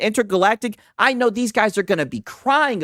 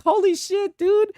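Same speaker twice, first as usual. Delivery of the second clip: exasperated holy shit; 10 semitones higher, slower than usual. Real, not acted. Mocking exasperation at streamer.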